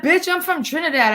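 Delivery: high, sneering imitation of a tough guy; mocking the rival. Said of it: "and he's like".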